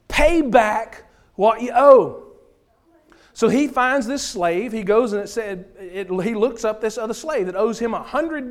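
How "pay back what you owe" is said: loud, slow demand with a hint of menace; a harsh creditor's demand read out with force; stern demand. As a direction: press the debtor hard, word by word. Slave choking his debtor.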